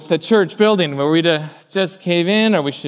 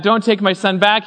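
firm quoted command, pitched up; adamant; 4 semitones higher, 3 dB louder than usual. Retold or imitated. Abraham quoted warning his servant about his son, adamant. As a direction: forbid it with raised, insistent pitch. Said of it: "he was adamant about it".

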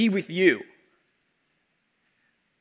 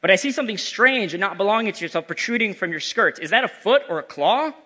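Scrooge voice; 3 semitones higher than usual. Acted. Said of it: "This is Scrooge speaking".

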